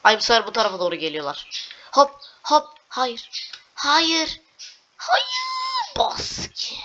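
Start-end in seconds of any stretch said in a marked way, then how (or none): 1.9-6.8 high, loud rising no; panicked cry. Real, not acted. Gamer crying out as the character falls, panicked. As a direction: shriek it as you fall.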